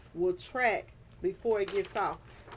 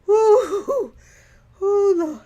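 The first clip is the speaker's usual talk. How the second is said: laughing; 12 semitones higher, 12 dB louder, much slower than usual. Real, not acted. Still laughing.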